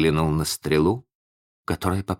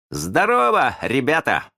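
high, hearty call; high-pitched hello to the boys; shouted greeting; 9 semitones higher than usual. A narrator's reading. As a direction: hail the gang in a raised voice. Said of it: "закричал он".

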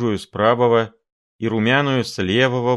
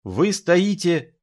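growled; 10 semitones higher, much slower than usual. A narrator's reading. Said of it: "рычал Филипп Филиппович".

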